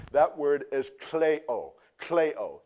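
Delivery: kleo said slowly as klay-oh; slow klay-oh for kleo, stressed on the first syllable; word demo. Shown as a demonstration. Pastor teaching the Greek word kleo, slow and clear. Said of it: "it literally means to sob".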